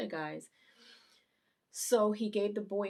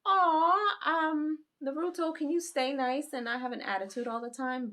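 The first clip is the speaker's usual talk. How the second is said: gushing coo; 9 semitones higher, 9 dB louder than usual. Acted. Viewer begging Naruto to stay nice, gushing. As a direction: coo at him, then plead sweetly.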